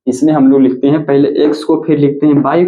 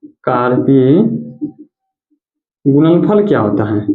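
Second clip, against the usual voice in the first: word by word. Shown as a demonstration. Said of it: "अब ये कार्तीय गुणनफल क्या होता है वो समझिएगा".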